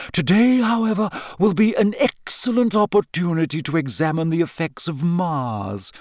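lightly voiced mystical professor, pitch swooping; theatrical teacher. Trelawney lecturing her divination class, theatrical teacher. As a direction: lecture with airy, theatrical emphasis.

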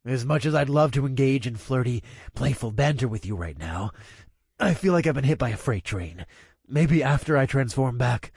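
strained, through clenched teeth; gritted teeth. Acted. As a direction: push it out through the pain. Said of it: "I said through gritted teeth".

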